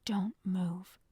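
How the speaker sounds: low, hushed command under a blanket; hushed warning. A narrator's reading. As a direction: keep it low and firm. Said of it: "in a voice that echoed under my blanket".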